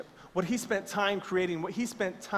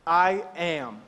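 firm, louder call to the crowd; 5 dB louder than usual. Shown as a demonstration. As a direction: say it out so they repeat. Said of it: "I need everybody to say".

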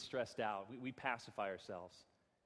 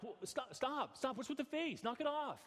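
mock exasperated husband; 11 semitones higher than usual. Retold snapping at his wife.

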